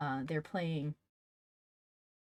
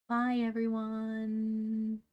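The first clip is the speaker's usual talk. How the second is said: bright, louder, drawn-out farewell; cheery goodbye; 5 semitones higher, 5 dB louder, slower than usual. Real, not acted. Teacher happily signing off to her online class. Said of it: "warm sign-off to class".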